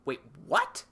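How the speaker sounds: very high rising double-take; imitated disbelief. Crew hearing of Luke's X-Wing transmission, mock stunned. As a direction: act baffled, pitch shooting up.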